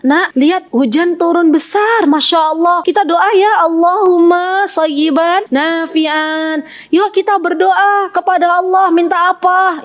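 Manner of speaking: lifted, bright-voiced teacher inviting pupils to pray; teacher urging children. Shown as a demonstration. Teacher telling pupils at school to pray in the rain, encouraging. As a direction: coax the class to pray as the rain falls, with the prayer drawn out slowly. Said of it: "kita bilang ke anak-anak".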